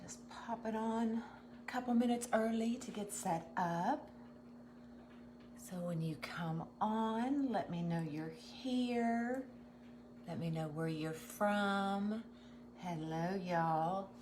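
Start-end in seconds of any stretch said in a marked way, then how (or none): 5.6-12.2 hushed. Real, not acted. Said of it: "I don't know why I'm whispering".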